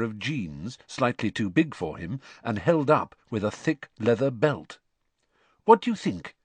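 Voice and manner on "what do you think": high-pitched, louder nervous question; mildly anxious appeal. A narrator's reading. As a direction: ask eagerly, unsure of the answer. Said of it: "he asked anxiously".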